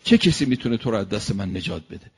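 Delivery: a warrior's challenge, called out loud; shouting. Acted. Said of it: "فریاد زد یک مرتبه". (فریاد نمایشی)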